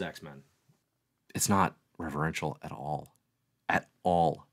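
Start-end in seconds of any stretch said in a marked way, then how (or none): none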